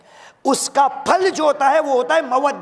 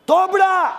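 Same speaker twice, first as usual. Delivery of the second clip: mock sulk; 6 semitones higher, slower than usual. Mocks a sulky face.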